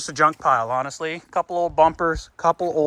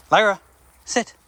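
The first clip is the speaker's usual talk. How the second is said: calling the dog; 5 semitones higher, 4 dB louder than usual. Real, not acted. Training the puppy to sit.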